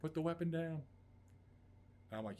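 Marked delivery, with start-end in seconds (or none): 0.0-0.8 police loudspeaker. Retold or imitated. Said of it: "they get on a loudspeaker".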